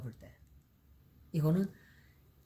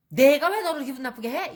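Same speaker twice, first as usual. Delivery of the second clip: higher, louder indignant comeback rising on 왜; defensive retort; 8 semitones higher, 7 dB louder than usual. Retold or imitated. The accused person firing back at a blaming remark, indignant and defensive. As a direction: snap back defensively, stressing 왜. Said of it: "이렇게 나오는 거죠".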